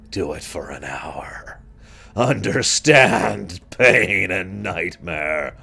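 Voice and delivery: slow whispered doom voice; creepy whisper. Pretend. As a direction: drag out the words like a curse.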